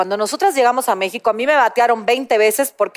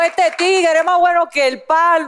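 Dominican accent. Shown as a demonstration. Host demoing a Dominican "llame ya" ad. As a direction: pitch the little guy in Dominican Spanish. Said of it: "A ver, ven-, vendan".

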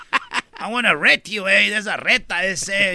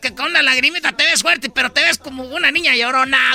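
cholo voice. Acted. Cholo tough talking to Don Cheto in slang. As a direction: lay back and talk like a homeboy.

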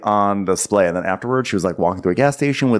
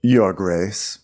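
restrained, lower passive-aggressive goodbye; 4 semitones lower than usual. Acted. Otto taking leave of the king, passive-aggressive. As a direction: say it as a veiled slight. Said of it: "most passive-aggressive goodbye".

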